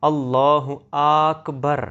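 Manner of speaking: اللہ اکبر drawn out, alif doubled; wrong Allah with doubled alif. Shown as a demonstration. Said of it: "بہت سے لوگ یہ لفظ اس طرح پڑھتے ہیں". (اللہ اکبر الف پر شد کے ساتھ غلط تلفظ)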